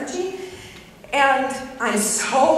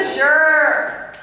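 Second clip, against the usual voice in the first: curt angry sure; 3 semitones higher, 7 dB louder than usual. Retold or imitated. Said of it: "That's how angry I was".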